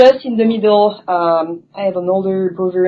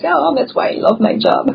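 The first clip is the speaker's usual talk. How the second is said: delighted; 7 semitones higher than usual. Retold or imitated. Quoted delighted reaction.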